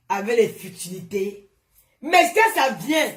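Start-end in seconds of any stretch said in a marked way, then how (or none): 2.0-3.1 stern rule-setting call; emphatic lecture. Real, not acted. Lecturing followers, firm rule.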